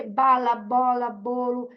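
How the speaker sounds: word list read out one by one; measured, separate words with a firm first one; beginning reader. Retold or imitated. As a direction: lightly imitate a new reader sounding out words. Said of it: "Comecei com a letrinha B".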